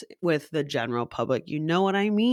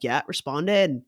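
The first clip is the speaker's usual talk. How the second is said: slow, put-on Australian accent; 3 semitones lower, slower than usual. Shown as a demonstration. Mimic responds to Australians in kind, Australian accent. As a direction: answer in a casual Australian accent. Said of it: "I mean, Australians".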